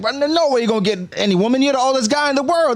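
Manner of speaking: put-on high-pitched, slurring drunk taunt; mock the old giant like a drunk fool; drunk Usopp taunt. Drunk Usopp mocks old Ja Rule.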